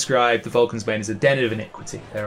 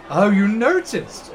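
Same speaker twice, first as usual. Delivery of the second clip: flattered surprise; 9 semitones higher, slower than usual. Acted. Saul flattered.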